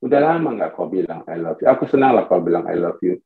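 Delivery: low, calm appeal; wife's gentle request. Acted. Wife asking her husband for loving words, low and gentle. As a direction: drop low and ask for affection. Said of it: "Tapi istri saya minta".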